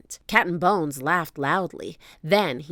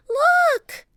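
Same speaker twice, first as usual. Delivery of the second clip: high, loud cry of "look"; urgent call; 8 dB louder than usual. A narrator's reading. Annie calls out a warning.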